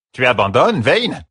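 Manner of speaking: can't believe he's quitting; surprised. Acted. Bald man surprised at leaving.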